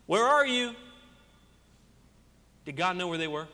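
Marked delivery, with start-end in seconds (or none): 0.1-0.7 God calling out. Retold or imitated. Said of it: "what does God say?".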